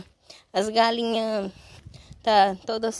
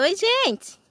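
high, louder little-animal voice saying hi; voicing the sheep; 11 semitones higher, 5 dB louder than usual. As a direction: speak for the sheep in a cute voice. (voz aguda de ovelhinha dizendo oi)

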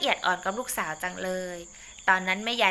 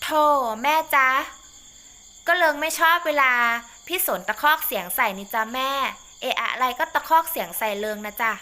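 a lightly voiced daughter pleading, higher at first; whiny daughter; 5 semitones higher, 4 dB louder than usual. Daughter complaining to her mother, lightly voiced and whiny. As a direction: complain to mom about the shouting husband.

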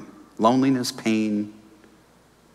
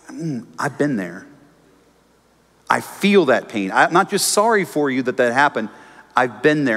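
empathetic reply. Pretend. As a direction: say it gently, like someone who has lived it. Voicing empathy to a sufferer.

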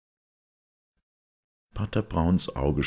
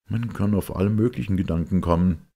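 higher, louder, eager questioning; Smith; 6 semitones higher, 5 dB louder than usual. Acted. Smith pressing Father Brown about his theory, higher and louder. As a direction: press the priest with a keen question.

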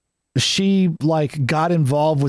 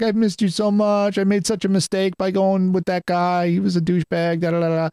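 mock tearful plea in a held, raised pitch; imitated crying; 2 semitones higher than usual. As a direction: lightly imitate her weepy apology, trailing into da-da-da. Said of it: "she starts crying".

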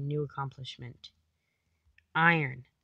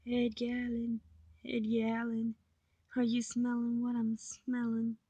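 high silly voice; 6 semitones higher than usual. Pretend.

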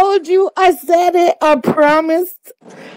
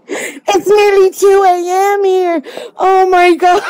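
excited; 4 semitones higher than usual. Real, not acted. Overjoyed winner at 2 AM.

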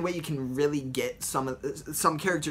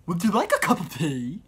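louder lisping hatter voice; Mad Hatter; 2 semitones higher, 4 dB louder than usual. Retold or imitated. Mad Hatter offering tea with a lisp. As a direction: offer tea like an eccentric host. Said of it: "the Mad Hatter".

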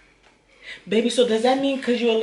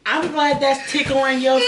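laughing; 5 semitones higher than usual. Real, not acted. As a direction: tease while cracking up. Laughing at partner.

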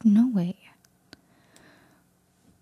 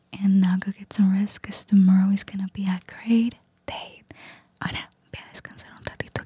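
ASMR whisper. Real, not acted. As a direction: whisper close to the mic, relaxing the listener. Susurro ASMR todo el video. (susurro ASMR suave)

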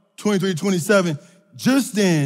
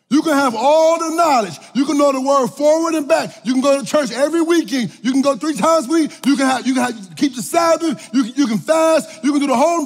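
building to a shout; 4 semitones higher than usual. Acted. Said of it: "building preaching".

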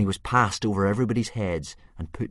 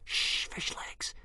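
urgent slow whisper; 8 dB quieter, much slower than usual. Acted. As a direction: hush a friend in a whisper. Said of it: "whispered Hiccup".

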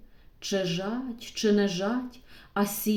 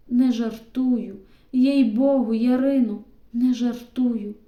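louder, emphatic promise; earnest insistence; 3 semitones higher, 8 dB louder than usual. A narrator's reading. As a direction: swear it so she believes. Stepan insists he means it.

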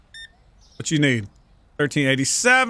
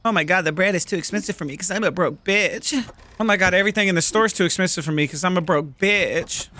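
mock whiny customer. Mocking voice of cheap customers.

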